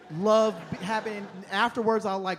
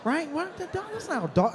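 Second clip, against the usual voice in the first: ordinary talk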